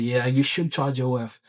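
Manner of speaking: put-on echoing the British accent back; slow, drawn-out mock British reply. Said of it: "She's British".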